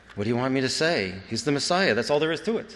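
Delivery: Yiddish-inflected speech. Quote your aunt telling of her experience before she died, in a thick Jewish accent. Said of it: "in a thick Jewish accent".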